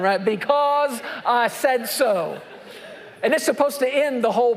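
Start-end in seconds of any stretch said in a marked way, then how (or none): 0.2-2.4 slow, drawn-out parent's final word; stern parent. Acted. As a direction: end the argument, slowly. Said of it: "I see a head nod".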